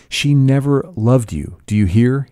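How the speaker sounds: high-pitched, vehement declaration; excited cry. A narrator's reading. Gatsby springs up to confront the husband, crying out excitedly. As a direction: cry it out, insisting on being heard. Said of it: "he cried".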